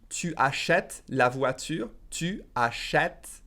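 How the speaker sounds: slow, every syllable clear; slow careful French. Shown as a demonstration. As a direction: say it slowly and fully. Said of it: "If I said it faster".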